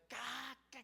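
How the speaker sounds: mock laugh. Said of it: "comecei a rir de novo".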